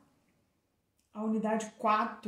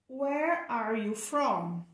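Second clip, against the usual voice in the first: model question; slower than usual. Shown as a demonstration. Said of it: "Olha a pergunta".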